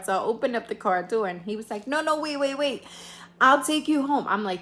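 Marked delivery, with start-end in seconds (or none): 1.9-4.3 panicked date voice. Retold or imitated. Date panicking as she leaves.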